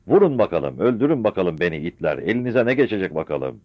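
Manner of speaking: loud defiant taunt. Acted. Mother taunts soldiers firing at her, defiant. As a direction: dare them to fire.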